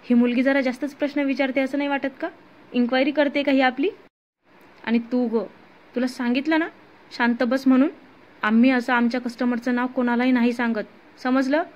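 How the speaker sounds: irritated thug tells the woman to shut up. Acted. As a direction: snap at the nosy captive. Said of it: "एक गुंड चिडून म्हणाला".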